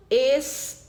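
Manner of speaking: "esperança" broken into es, pe, ran, ça; syllable by syllable. Shown as a demonstration. Teacher checking the last word with pupils, "esperança" syllable by syllable. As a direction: separate each syllable of "esperança" with a pause. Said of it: "separar conforme eu falo".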